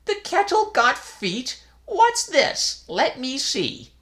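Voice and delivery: high, loud startled questions; baffled old priest. A narrator's reading. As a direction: puzzle over it aloud.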